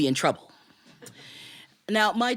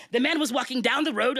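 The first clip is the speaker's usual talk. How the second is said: impatient tiger; 7 semitones higher than usual. Acted. Tiger explains impatiently to the mouse.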